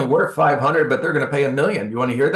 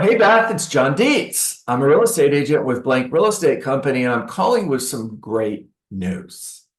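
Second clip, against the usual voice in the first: friendly call; 2 semitones higher than usual. Shown as a demonstration. Agent demonstrating a warm friend call, upbeat. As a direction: sound happy to be calling.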